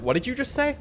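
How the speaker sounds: high, incredulous what did you just say; mock disbelief. Retelling how friend False reacted to a slip. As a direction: echo a friend's shocked question. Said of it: "she was just like".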